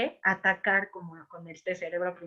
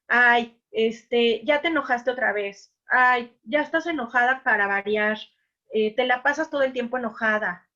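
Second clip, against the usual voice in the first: mock nagging, a bit louder; regaño criticón; 4 dB louder than usual. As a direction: scold her for always being angry, half-acted. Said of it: "y yo le digo". (reproche exasperado, un poco más fuerte)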